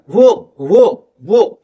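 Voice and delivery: "वो" said with rounded lips, no teeth; rounded W sound. Shown as a demonstration. Teacher showing learners the sound, slow rounded "वो". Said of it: "वो sound आएगा उस तरीके का".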